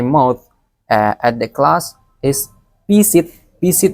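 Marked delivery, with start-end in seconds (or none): 2.9-3.3 visit in a Palembang accent, with an S for the Z. Shown as a demonstration. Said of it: "with the accent of Palembang". 3.6-3.9 visit in a Palembang accent, with an S for the Z. Shown as a demonstration. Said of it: "with the accent of Palembang".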